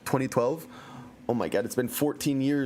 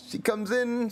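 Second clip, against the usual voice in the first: usual speaking voice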